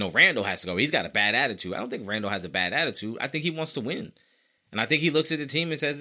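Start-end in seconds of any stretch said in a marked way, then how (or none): 0.0-1.7 mocking critics. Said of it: "And you keep saying".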